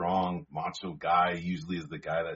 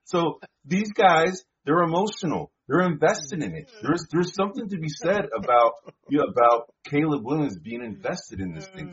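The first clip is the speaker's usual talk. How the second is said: much higher, much louder, insisting; loud, pitched-up heated rant; heated shouting; 9 semitones higher, 10 dB louder than usual. Real, not acted. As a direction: shout him down, you had your turn. Heated argument over air time.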